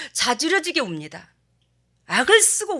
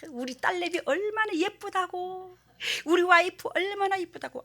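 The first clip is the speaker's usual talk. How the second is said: excited proud dad; 8 semitones higher than usual. Retold or imitated. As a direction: gush like a proud new father. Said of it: "들떠가지고".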